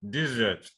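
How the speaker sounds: desert as DEZ-ert; front-stress desert on DEZ; stress on first syllable. Shown as a demonstration. Teacher repeating the noun, desert stressed on DEZ. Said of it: "So that's a noun".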